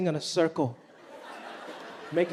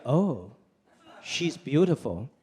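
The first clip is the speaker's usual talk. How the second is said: dad voice; 6 semitones lower, much slower than usual. Retold or imitated. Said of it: "He would be like".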